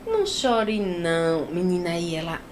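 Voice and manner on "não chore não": slow, gentle hush; mother soothing her newborn; tender soothing. Retold or imitated.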